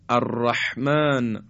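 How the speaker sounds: الرحمن slow, with a husky, constricted ح. Shown as a demonstration. Teacher demonstrating the husky ح. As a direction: squeeze the ح of الرحمن in the throat.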